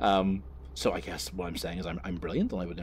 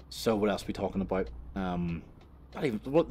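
usual speaking voice

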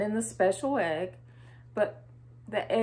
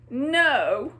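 tearful bunny; 3 semitones higher than usual. Acted. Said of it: "with tears in his eyes".

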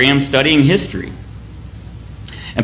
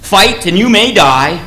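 Wallace rallying troops; 4 semitones higher, slower than usual. Retold or imitated. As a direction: stir the deserters to fight. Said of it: "William Wallace says".

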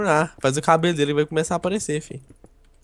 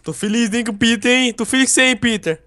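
mock affectionate teasing; 5 semitones higher than usual. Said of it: "você não vai começar com esse negócio".

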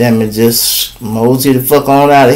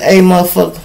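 hotel manager; 3 dB quieter than usual. Acted. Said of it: "the hotel people said".

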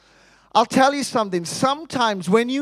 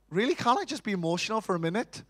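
softer, fast exasperated plea; mock weary woman; 7 dB quieter, much faster than usual. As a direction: sigh it out quickly, tired of being asked. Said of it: "it's like".

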